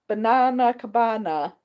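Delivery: Banana Cabana with a flat American a, banAna, slowed; attempted American accent. Shown as a demonstration. Host attempts an American way of saying Banana Cabana, mock American accent. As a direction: try the name in a mock American accent, a bit slow. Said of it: "I should say that the American way".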